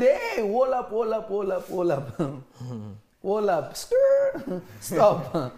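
loud, laughing calls of hold up then stop; God calling the prophet back, loud and half laughing; God shouting hold up. Retold or imitated. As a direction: call out like God stopping the prophet from leaving. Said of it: "God said".

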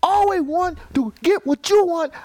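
hammed-up angry shopkeeper voice; broad comic immigrant accent; mocking Asian accent. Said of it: "it put me in character".

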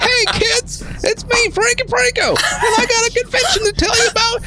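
put-on very high, squeaky old-timey announcer; hammed-up old-time radio pitchman. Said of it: "do it in, like, an old-timey voice".

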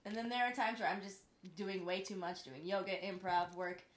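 talking through small burps; swallowing burps between words; burping after fizzy drink. Real, not acted. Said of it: "Sorry, I just can't stop burping".

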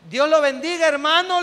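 high, loud mock blessing; hammed-up squeaky-pitched greeting to a suspicious passenger; nervous greeting. Imita saludo nervioso en el microbús. (saludo nervioso exagerado, agudo)

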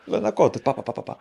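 put-on a light Russian accent, pointing it out; a Russian cleaner in broken Hebrew. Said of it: "כמו רומן".

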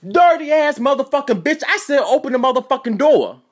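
high-pitched mock shouting through a door; imitated angry yelling. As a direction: imitate a furious roommate demanding entry. Roommate yells through the door.

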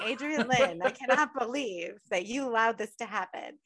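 mock maternal scolding, full name first; lightly acted outraged mom; scolding mother. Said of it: "bitching at me and saying".

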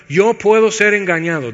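firm, declared out loud. Shown as a demonstration. Preacher modelling the confession for the congregation, firm and loud. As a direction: proclaim it so you hear yourself. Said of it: "hay que decirlo en voz alta".

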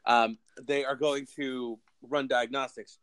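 chewing between words; slow, talking around lunch; mouth full. Real, not acted. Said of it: "you're gonna hear me eating my lunch".

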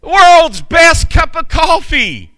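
high, loud, slow shout of the sign's words; Buddy the Elf yell. Retold or imitated. Buddy congratulating the diner on its sign, thrilled shout. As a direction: shout World's best cup of coffee like an overjoyed elf. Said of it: "he yells".

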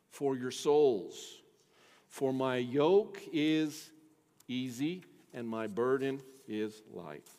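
savoring the words of Jesus for the congregation; slow scripture reading. Acted. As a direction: read the verse slowly and gently. Reading scripture aloud, slowing.

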